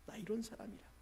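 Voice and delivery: a hint of a proud king lifting his voice. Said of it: "자랑하고 싶은 마음".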